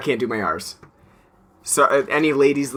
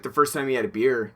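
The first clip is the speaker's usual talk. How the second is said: ordinary talk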